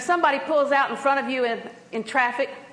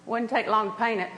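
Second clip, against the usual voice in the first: understated, casual nudge; hint lightly at a favor without asking; offhand, gently angling for action; cushioned request; 2 semitones lower, 3 dB quieter than usual. Retold or imitated. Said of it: "I'm cushioning my words".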